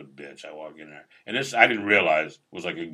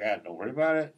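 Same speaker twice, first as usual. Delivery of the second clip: easygoing, slightly higher-pitched reassurance; nice guy reassurance; 5 semitones higher, faster than usual. Retold or imitated. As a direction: imitate a kindly man waving off an apology. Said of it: "He's a very nice guy".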